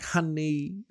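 high, drawn-out "Honey" in a put-on Asian accent; mock Asian accent. Podcaster jokingly says his favourite word in a mock Asian accent. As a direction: say "Honey" with a stretched nn and a rising lilt. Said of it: "one of my favorite words at the moment to say in, like, an Asian voice".

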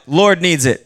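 loud, blunt "Lord needs it" then a barked "Bah!"; loud mock reply. Thief answering the homeowner with a loud blunt retort. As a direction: belt it out as a cheeky thief would. Stranger grabbing your lawnmower.

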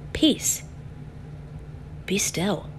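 soft, hushed command, half whispered; Jesus calmly hushing the storm. Retold or imitated. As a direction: still the storm with a soft word. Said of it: "he calmly commands".

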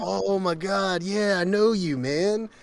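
high, drawn-out mock excitement; excited recognition. Imitating people who recognise CJ, excited. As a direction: act thrilled to recognise someone.

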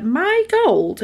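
high shocked echo of a question; aghast. Retold or imitated. Leprechaun stunned that the man wants his gold, shocked. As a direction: gasps it back in disbelief.

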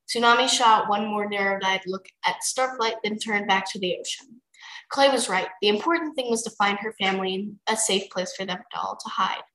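easy read-aloud narrator; story narration. A narrator's reading. Reader telling friend a dragon story, narrating. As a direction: narrate it like a bedtime chapter.

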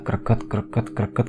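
imitated creaking. The noise goes on while friends sleep, imitated creaking. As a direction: mimic a persistent grinding noise, quietly. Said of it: "Tapi suara itu ada".

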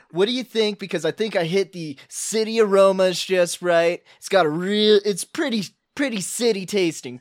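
a lightly voiced loud party bro, hyped and cocky; cocky bro bragging about his dish; dude-bro chef.

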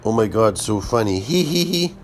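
hammed-up fake tittering fan; faking madness. Mocks podcast listener.

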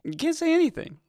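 high whispered aside. Real, not acted. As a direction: whisper it like a secret.

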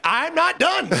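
high-pitched mock exasperation; retold indignant outburst; exasperated retort. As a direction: protest it way up high, like a fed-up waiter.

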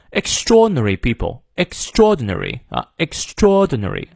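"extraordinary" with no R before the d, R kept near the end; British R rule. Shown as a demonstration. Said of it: "前面的R不念". (英式"extraordinary"，前R不念，后R要念)

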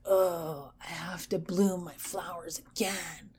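whispered weary moan of a tree. Pretend. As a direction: sigh it out like a tired tree forced to bloom. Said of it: "are moaning like".

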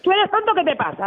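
high, indignant jab; exasperated high-pitched put-down; angry insult. Real, not acted. Customer insults the agent.

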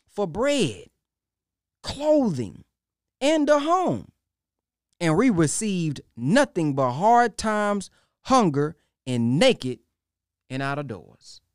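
loud, rising cry; preaching at full force. Real, not acted. Preacher crying out his people's suffering, loud. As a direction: build the suffering to a shout.

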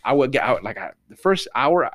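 usual speaking voice

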